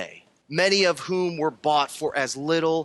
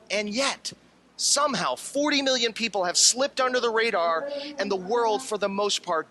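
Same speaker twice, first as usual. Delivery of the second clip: worked up. Acted. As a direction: let the outrage build. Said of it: "getting really sort of worked up".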